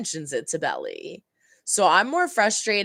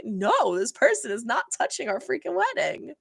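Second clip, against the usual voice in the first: high, quick mock protest; appalled refusal; 5 semitones higher than usual. Imagined veto of the wedding planner, appalled. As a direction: refuse in pitched-up disbelief.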